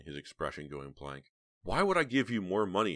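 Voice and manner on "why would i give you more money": higher, louder indignant question; demanding. A narrator's reading. Heather challenges the blackmailer, demanding. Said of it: "Heather demanded".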